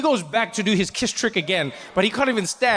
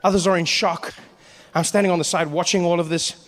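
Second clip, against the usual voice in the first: ordinary talk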